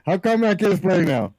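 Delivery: lightly acted objection, halting the game; Blackbeard calling timeout. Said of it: "the Blackbeard calls a timeout, and he says".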